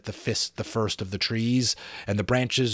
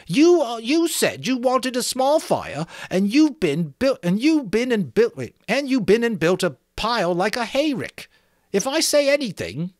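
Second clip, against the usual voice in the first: high, loud, bitter cry; bitter Piggy; 13 semitones higher, 5 dB louder than usual. A narrator's reading. Piggy to Ralph, bitterly crying out. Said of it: "cried Piggy with bitter realism".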